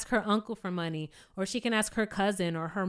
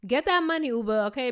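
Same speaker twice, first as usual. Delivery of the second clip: cheering her on; 3 semitones higher than usual. Real, not acted.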